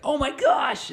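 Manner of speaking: put-on high, loud excited squeal of a kid; kids freaking out. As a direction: shriek it like a thrilled little kid. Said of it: "like, freaking out".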